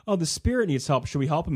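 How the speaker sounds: lightly voiced eager child; kid's plea. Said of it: "the kid will do this all the time".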